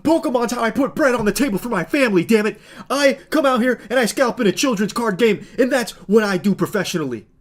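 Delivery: mocking the streamer. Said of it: "he's out here firing from the hip here like".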